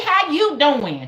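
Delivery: slow, high, loud Southern greeting; copied Georgia accent. Retold or imitated. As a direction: mimic Georgians, stretching it out. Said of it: "I be trying to copy 'em".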